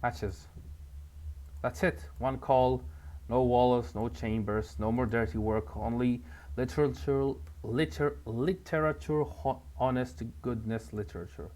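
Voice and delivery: a hint of a gruff, paranoid writer on the phone; lightly voiced Walter. Player voicing Walter arguing on the phone, lightly gruff. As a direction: play it hushed and defensive.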